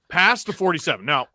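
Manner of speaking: mildly hammed-up commentator rant; light impression, incredulous questions that jump in pitch; Sid Seixeiro. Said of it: "Can you do your Sid Seixeiro impression?".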